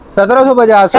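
high, amazed question; surprised. Acted. Host feigns amazement at price.

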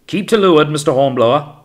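very loud, high command; shouted order. A narrator's reading. Captain warns the longboat to keep off, shouting. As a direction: call the order across the water.

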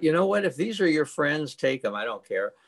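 retold huffy dismissal, starting high and falling away; defiant brush-off. Telling Jesus he is leaving, mock-defiant. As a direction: toss it off defiantly, pitch dropping to the end.

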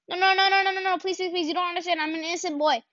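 high whiny begging, playful; mock pleading. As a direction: plead like a helpless kid. Begging enemy not to shoot.

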